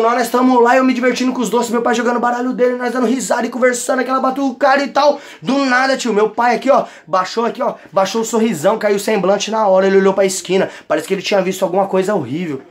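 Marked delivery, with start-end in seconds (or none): none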